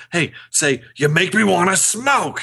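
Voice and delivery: hammed-up Australian movie-line imitation; mock Australian accent. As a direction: put on a playful Australian accent. Quoting a requested Australian-accent line.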